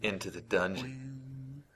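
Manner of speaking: slow, seductive late-night ad voice; sultry voice. Acted. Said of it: "like, a sultry voice".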